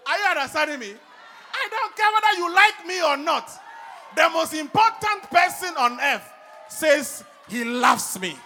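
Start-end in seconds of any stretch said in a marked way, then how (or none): 1.5-8.4 loud, high, fervent preaching; preaching at full force. Acted. Preacher to his congregation, preaching at full force. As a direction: proclaim it to the whole church.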